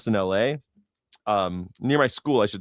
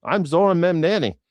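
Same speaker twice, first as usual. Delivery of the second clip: a hint of a cheery video intro, raised higher; a playful take on a politician's self-introduction; lightly imitating a politician's cheerful intro; mock intro; 7 semitones higher, 3 dB louder than usual. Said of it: "I thought there might have been an intro".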